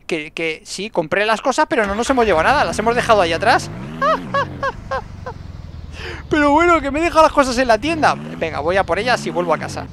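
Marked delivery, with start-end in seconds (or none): 3.7-6.2 high unvoiced wheezing laugh; breathless laugh. Real, not acted. Se ríe de su despiste. 6.3-8.2 higher, louder laughing exclaim. Real, not acted. Se ríe de olvidar las cosas.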